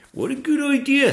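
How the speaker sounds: high, loud keen little dragon; eager young dragon. Acted. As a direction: jump at the offer as a young dragon. Zog accepts eagerly.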